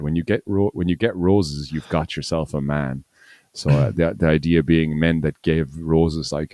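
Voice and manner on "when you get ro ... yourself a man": put-on Australian accent. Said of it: "that's the tagline that they had".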